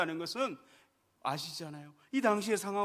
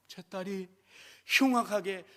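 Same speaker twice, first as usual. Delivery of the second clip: mock cry; 5 dB louder than usual. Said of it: "소리를 지르는 거예요".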